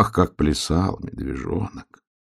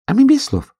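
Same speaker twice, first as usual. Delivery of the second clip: much higher, carefree little voice; tiniest sun hare; 3 dB louder than usual. A narrator's reading. Smallest sun hare answers the hare, very high carefree voice. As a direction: laugh off the missing words. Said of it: "сказал самый маленький солнечный заяц".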